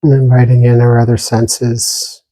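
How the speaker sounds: calm, even meditation guidance with long silences between phrases; unhurried meditation teacher, pausing long after each instruction; guided meditation. Real, not acted. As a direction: gently guide listeners inward, leaving lots of space.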